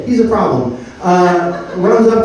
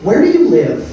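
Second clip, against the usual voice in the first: suspicious officer; 9 semitones higher, 4 dB louder than usual. Retold or imitated. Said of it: "he goes".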